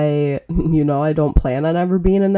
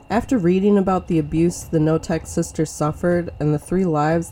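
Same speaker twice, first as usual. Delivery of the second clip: measured, grave storytelling read; true crime narrator. A narrator's reading. Podcast cold open read.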